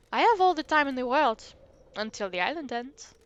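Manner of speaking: mild French ghost voice; a lightly French, wistful ghost; hint of a French accent. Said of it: "the accent".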